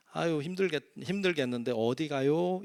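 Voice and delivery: gentle concerned elder; lightly voiced caring grandfather; kindly grandpa. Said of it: "이렇게 물어보면". (다정한 할아버지 말투 살짝)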